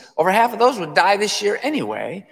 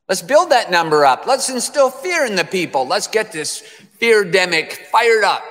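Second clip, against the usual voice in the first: mock rallying cry of scheming officials; emphatic, sarcastic pep talk; mocking imitation; 3 semitones higher, 4 dB louder than usual. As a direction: whip it up with scornful relish. Mocks officials inflating the death count.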